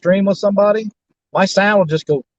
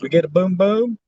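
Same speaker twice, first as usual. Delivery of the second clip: choppy robotic stream audio; robot voice from a bad connection; robotic glitchy audio; 2 semitones higher than usual. Real, not acted. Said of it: "Chris, you sound like a robot".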